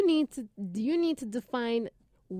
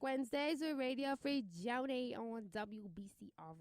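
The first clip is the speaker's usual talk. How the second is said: Brooklyn accent; 9 dB quieter than usual. Real, not acted. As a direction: lay on the thick Brooklyn accent. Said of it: "Where did that accent come from?".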